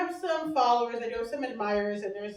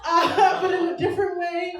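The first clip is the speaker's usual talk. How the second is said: mock encouragement; 5 semitones higher, 6 dB louder than usual. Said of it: "everyone's like".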